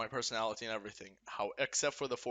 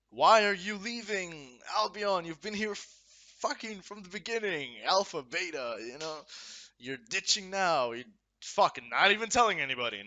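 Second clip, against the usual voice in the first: higher, louder pretend fan demanding answers; mock upset fan; 4 semitones higher, 3 dB louder than usual. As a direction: play a betrayed community member. Voicing fans asking why he leaves.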